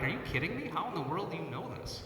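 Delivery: playing his teenage self, amazed; retold amazement. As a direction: throw it out in surprise. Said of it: "I'm like".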